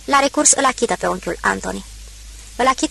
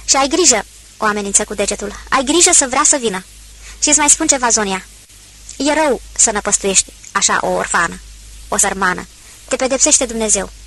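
stern warning. Acted. Procop threatens Zonia.

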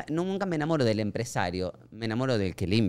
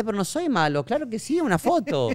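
bright, higher eager reassurance; chirpy higher-pitched yes; cheerful reply; 10 semitones higher than usual. Retold or imitated. Actor tells fan he will happily pose, bright and high. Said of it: "Y yo le contesté".

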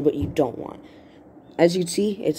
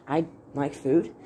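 "I like food" asked slowly, unsure, as a question. Shown as a demonstration. Writing teacher showing a question mark, puzzled question. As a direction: ask "I like food" tentatively, drawn out. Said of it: "with a question mark".

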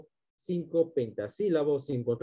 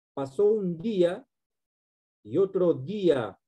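verse recitation; 3 semitones higher than usual. Shown as a demonstration. Teacher recites verse example.

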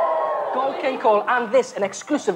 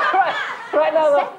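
cheeks stuffed full; 6 semitones higher than usual. Real, not acted. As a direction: mouth full, laughing. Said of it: "Sorry, I'm talking with a full mouth".

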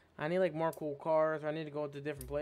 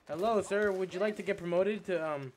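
mock polite; 3 semitones higher, 5 dB louder than usual. Taunting enemy before killing.

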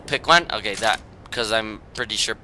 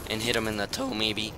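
voice crack; 5 dB quieter than usual. Real, not acted. Player doubting their own shot, voice cracking. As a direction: voice cracking mid-sentence. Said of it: "Whoa, whoa, that voice crack".

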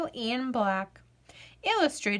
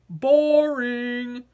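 bored potato; 4 dB louder than usual. Acted. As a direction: sound like a vegetable with no fun left. Potato dismisses skipping.

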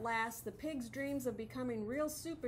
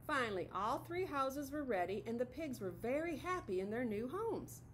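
lively storybook narration; reading to children. A narrator's reading. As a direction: read it brightly to little kids. Reads picture book to children.

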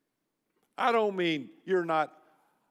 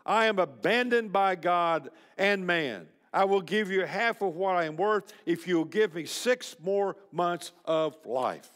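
mild desperate cry; 2 semitones higher than usual. Retold or imitated. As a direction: plead for more life, lightly acted. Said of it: "he cried out most desperately".

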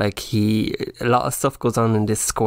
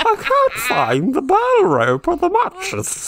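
high, loud, hammed-up terrified wail; mock panic; 4 dB louder, slower than usual. Host re-reads the scary line, hammed-up panicked wail. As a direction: wail it in fake terror.

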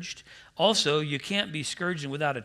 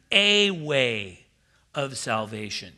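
"a way" punched louder, then "of salvation" dropped low; stress on a; 4 semitones lower, 4 dB louder, slower than usual. Shown as a demonstration. Preacher giving the correct Greek reading, leaning hard on "a way". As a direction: lean on "a way". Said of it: "it would read correctly".

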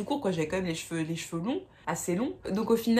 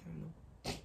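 réponse penaude; 3 semitones lower, 16 dB quieter than usual. Retold or imitated. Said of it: "J'ai dit".

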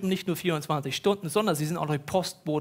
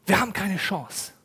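resigned. Acted. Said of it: "Vollkommene Verzweiflung".

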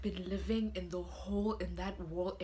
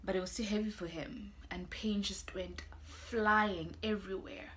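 whispering; 4 dB quieter than usual. Acted. Hushed retelling of the scene.

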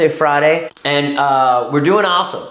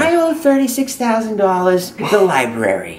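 put-on older mom voice. Holds mother character voice.

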